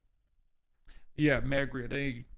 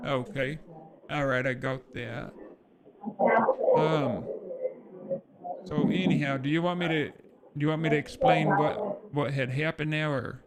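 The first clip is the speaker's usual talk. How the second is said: naive caller voice; 3 semitones higher than usual. Acted. Plays Robert Schneider to scammer.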